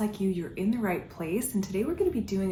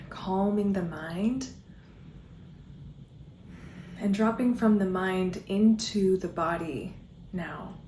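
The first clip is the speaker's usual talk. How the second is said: measured guiding voice with long pauses; guided movement. Real, not acted. Dance guide settling followers into their bodies, guided meditation. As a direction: lead them gently, leaving space between phrases.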